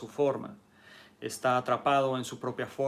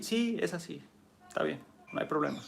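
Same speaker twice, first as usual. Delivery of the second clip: calm yielding; 5 semitones higher, faster than usual. Acted. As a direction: agree lightly and let it pass. Water yields calmly.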